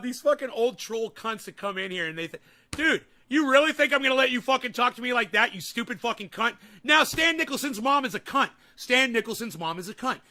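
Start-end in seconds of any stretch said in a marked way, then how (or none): 2.7-6.6 angry retort. Real, not acted. Snapping back at troll chatters. 6.8-10.2 loud taunt. Real, not acted. Insulting a chatter on stream.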